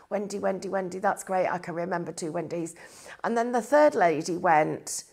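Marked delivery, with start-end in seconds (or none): 0.1-2.7 inner voice. Retold or imitated. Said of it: "I'm, like, thinking".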